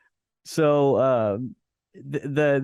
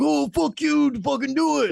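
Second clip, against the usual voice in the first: mock angry Randy; 12 semitones higher than usual. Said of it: "Randy's like".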